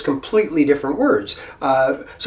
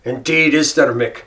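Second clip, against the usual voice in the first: imitated Irish fella. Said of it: "he looks at me and goes".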